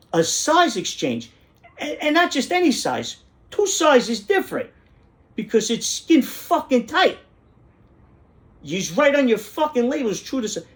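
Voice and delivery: high-pitched indignant tirade; retold customer meltdown; exasperated rant. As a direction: argue the case in escalating outrage, voice way up. Acted rant at the store clerk.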